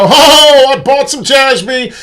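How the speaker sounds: mock a naive crypto buyer bragging; gleeful naive investor, hammed up and high; mocking typical investor. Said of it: "be your typical human being and go".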